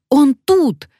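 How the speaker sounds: high, loud sudden cry. Acted. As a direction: cry out on spotting it. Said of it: "вскрикнула Алёна".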